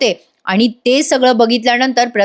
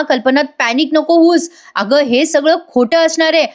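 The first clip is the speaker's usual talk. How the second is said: higher-pitched, gently insistent soothing; acted reassurance; 4 semitones higher than usual. Prataprao consoles weeping Kalpana, acted reassurance. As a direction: imitate a husband talking someone out of panic. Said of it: "Prataprao त्यांना समजवतात".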